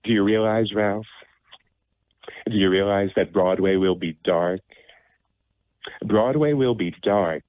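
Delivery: lightly voiced worried producer; a hint of a fretting Broadway producer; producer imitation. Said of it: "I'll do his imitation".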